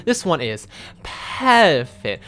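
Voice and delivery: very slow, drawn out sultry line; character voice.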